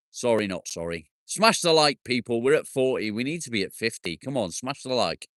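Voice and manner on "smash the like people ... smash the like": loud, pushy call to smash the like; rally the viewers to hit like; urging likes. Real, not acted. Streamer urging viewers, loud rallying call.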